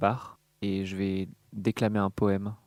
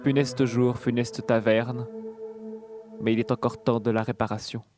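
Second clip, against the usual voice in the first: hammy stage actor. Acted. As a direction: declaim like a hammy tragedian. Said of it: "je vais déclamer un poème".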